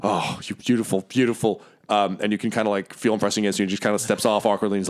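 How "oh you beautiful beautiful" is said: a hint of a weepy soldier; relieved gushing. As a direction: melt with relief into the hug. Relieved NPC hugging ally.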